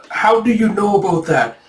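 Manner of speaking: high-pitched mock shock. Taejun reeling at his secret being known, shocked. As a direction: caught out and reeling. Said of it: "reeling in shock".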